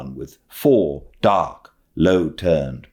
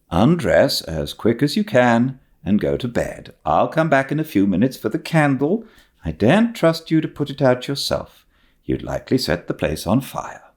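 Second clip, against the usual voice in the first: brisk stern spinster; 7 semitones higher than usual. Acted. Marilla sends Anne to bed.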